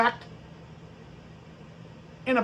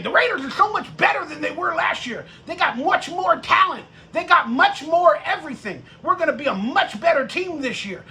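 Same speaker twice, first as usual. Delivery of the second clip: mocking fans; 4 semitones higher than usual. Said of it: "everybody on X or Twitter is saying".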